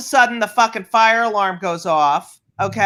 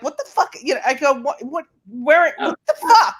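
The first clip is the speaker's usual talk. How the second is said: mock outraged yell; 3 semitones higher than usual. Confronting sunglasses guy.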